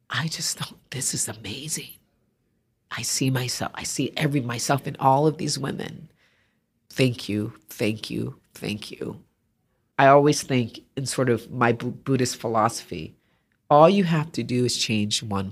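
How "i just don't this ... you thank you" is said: soft, whispered, moved thanks; tearful whisper. Retold or imitated. A crying viewer at the video thanks her, tearful whisper. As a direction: breathe it through tears.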